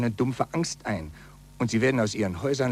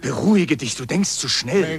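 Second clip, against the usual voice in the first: urging calm; 3 semitones higher, 4 dB louder than usual. Acted. Friend urges calm.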